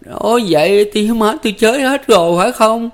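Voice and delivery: high, loud, cutting in with dread; hỏi dồn tuyệt vọng; desperate interruption. A narrator's reading. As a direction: demand the truth, voice straining. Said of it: "ngắt lời ông ta".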